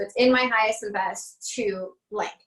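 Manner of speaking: "It's in my highest and best to blank" as an even assertion; as a statement. Shown as a demonstration. Teacher giving a template, "It's in my highest and best to blank" as a statement. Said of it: "I say it as a statement".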